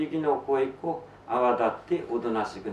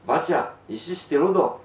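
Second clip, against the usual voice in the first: shouting; 4 semitones higher, 4 dB louder than usual. Retold or imitated. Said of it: "って叫ばいでも".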